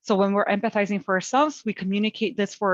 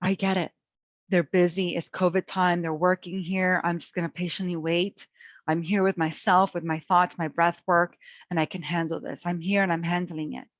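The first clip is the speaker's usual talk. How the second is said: calm patient self-talk; 3 semitones lower than usual. Retold or imitated. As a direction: settle yourself down gently. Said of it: "I'm saying".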